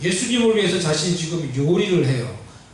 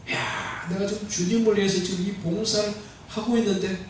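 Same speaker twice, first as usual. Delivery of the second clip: hushed, softly savoured self-talk; proud inner thought; 5 dB quieter than usual. Retold or imitated. Martha serving the Lord, privately proud, in a hush. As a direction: quietly marvel to yourself, half whispered. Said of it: "마음이 그냥 막 뿌듯했을 거예요".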